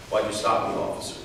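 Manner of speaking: quiet, even asking; calm question. Shown as a demonstration. Driver calmly asks the officer why he stopped him. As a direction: ask the officer calmly and softly. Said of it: "That elevation in your voice".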